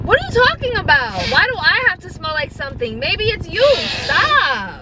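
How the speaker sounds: put-on indignant girlfriend. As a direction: throw it back at him, offended. Girlfriend defends herself in argument.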